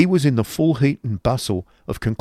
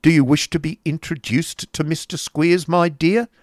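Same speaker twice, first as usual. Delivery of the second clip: high, mock-polite question; needling uncle; 8 semitones higher, 4 dB louder than usual. Uncle offering niece an introduction, needling. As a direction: ask it pointedly in a raised voice. Voicing Ralph addressing his niece.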